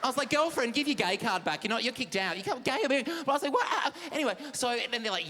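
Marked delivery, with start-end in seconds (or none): 0.3-3.1 sassy mock scolding. Mock scolding gay dinner guest. 3.5-4.0 shocked squeal. Retold or imitated. Shocked reply at dinner party.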